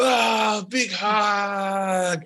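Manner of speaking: cheerful dwarf hugging the shoelace; jolly dwarf. Acted. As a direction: boom it out as he lifts them. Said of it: "Comes over to you".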